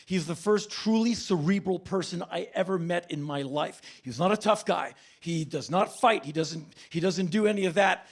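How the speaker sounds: normal talking voice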